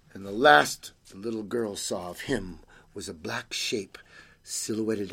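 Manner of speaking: animated storytelling with swooping pitch; story narration. A narrator's reading. Reader tells children of a night visitor, animated storytelling. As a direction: draw the listeners in, leaning on key words.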